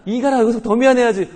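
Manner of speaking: high, loud mock scolding; scolding wife. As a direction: play the exasperated wife telling him off. Angry wife scolding apologizing husband. (남편을 혼내는 아내 흉내, 높고 크게)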